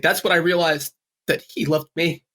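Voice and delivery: mock choked-up confession; halting, mildly tearful imitation; imitated breakdown. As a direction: imitate someone breaking down on the last sentence. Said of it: "Frank Oz breaks down at the very, at the very last sentence".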